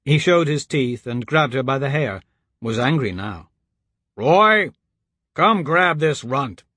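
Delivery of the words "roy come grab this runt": calling out. A narrator's reading. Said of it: "Elise screeched".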